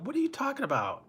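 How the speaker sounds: very high-pitched mock disbelief; incredulous dad, imitated. Dad to his yelling son at the match, imitated high disbelief. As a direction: question him like he's crazy, voice leaping way up. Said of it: "like he was crazy".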